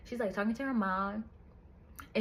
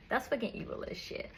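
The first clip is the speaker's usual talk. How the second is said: breathy half-laughed, much softer; laughing whisper; 6 dB quieter than usual. Real, not acted. Reviewer laughing at the devil's cruelty, whispered. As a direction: giggle it out under your breath.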